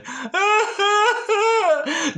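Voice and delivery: a burst of high laughter. Real, not acted. Tarot reader laughing at her own line.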